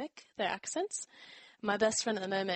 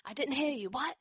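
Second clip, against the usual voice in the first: higher-pitched, blunt mock questioning; impolite "what"; 6 semitones higher than usual. American who didn't hear someone, mock blunt asking. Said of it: "instead of saying, like".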